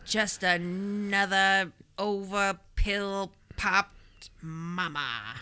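lightly voiced noir detective drawl; seventies detective voice. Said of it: "Did you like my seventies detective voice?".

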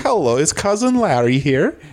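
lightly voiced foreign sitcom cousin; Cousin Balky. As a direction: ask with a hint of comic foreign accent. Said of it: "I am Cousin Balky".

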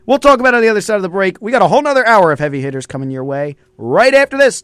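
radio host. Acted. Host tosses to the break.

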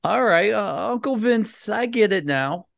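high, mock-humble voice of giving in; mock resigned realization. Host teasing the boss about finally understanding Uncle Vince, high and sheepish. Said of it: "you're in the same shoes going".

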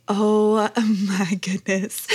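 slow, laughing oh my goodness; mock-exasperated laugh through the words; laughing disbelief. Mom reacting to son's eye roll, laughing slowly. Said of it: "And I was just like".

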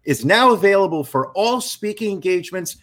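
booming radio announcer read. Acted. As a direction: sell it like a radio spot. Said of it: "I'm gonna put my radio voice on".

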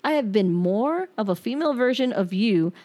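hurt, accusing letter read aloud; pained reading of a breakup letter; reading a bitter letter. Acted. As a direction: read it like you're still furious at him. Reads her unsent angry letter.

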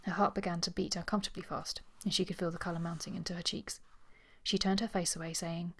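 measured read-aloud of a novel; composed storytelling voice; story narration. A narrator's reading. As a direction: narrate it like an audiobook. Reads a novel passage aloud.

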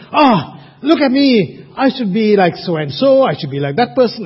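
mock the listener's envious thought; a hint of whining self-comparison; self-pitying inner voice. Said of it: "you might think".

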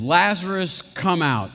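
half-voiced loud call. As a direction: call him out of the tomb. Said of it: "he calls out in a loud voice".

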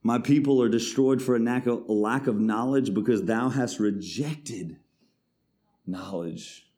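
forceful scripture reading. Acted. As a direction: declare the judgement from the pulpit. Reads scripture.

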